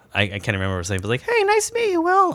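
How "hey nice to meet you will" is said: squeaky, very high-pitched voice. Speaker imitates a man greeting Will on meeting, very high-pitched voice. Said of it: "he had the highest pitch voice".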